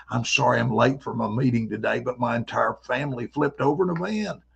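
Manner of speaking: lightly mimicked friend, matter-of-fact; a hint of the buddy's odd delivery; buddy's comical voice. Buddy excuses his lateness, lightly imitated comic voice. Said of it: "he sounded like this".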